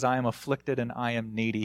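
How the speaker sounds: soft, quick, humbled prayer; humble plea. Retold or imitated. David comes to God humbly, in a soft plea. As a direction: say it small and lowly. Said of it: "He comes to God in smallness".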